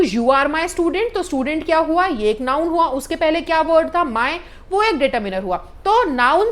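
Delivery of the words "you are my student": very slow, clear example sentence; slow dictation. Shown as a demonstration. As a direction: spell it out word by word for the class. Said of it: "वैसे ही अगर मैं बोलूं".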